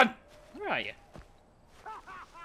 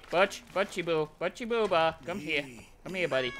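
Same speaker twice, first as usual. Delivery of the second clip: soft, low cooing to an animal; coaxing pet talk; 6 semitones lower, 7 dB quieter than usual. Real, not acted. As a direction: coax it over softly.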